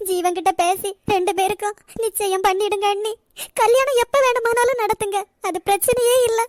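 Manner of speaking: distraught, urgent pleading; worked-up tearful plea; agitated. Acted. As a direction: beg frantically, upset and insistent. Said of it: "நீங்க முதல்ல பதட்டப்படாதீங்க அண்ணி".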